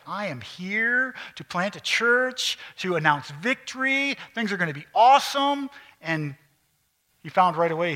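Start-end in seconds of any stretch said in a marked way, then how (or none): 0.0-5.7 Paul, proudly announcing his arrival at Damascus, with hammed-up triumph; triumphant Paul. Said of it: "Paul was like".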